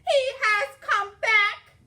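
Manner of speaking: high, loud, slow wail of fright; crying in fear. Acted. Old librarian cries that the bear is back, terrified. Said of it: "she said".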